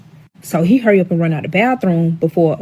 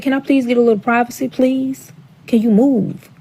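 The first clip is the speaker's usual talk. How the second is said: pointed plea for privacy; 4 semitones higher than usual. Retold or imitated. Asking him for privacy.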